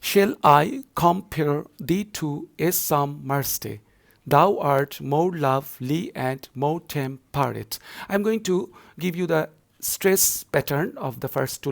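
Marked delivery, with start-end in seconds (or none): 0.0-7.8 slow, chopped into two-syllable feet; measured, metrical classroom recitation; scanning verse. Shown as a demonstration. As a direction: scan the lines aloud foot by foot, unhurried. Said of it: "let's scan it once again".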